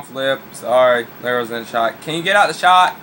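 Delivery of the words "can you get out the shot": scolding. Real, not acted. Scolding the cat.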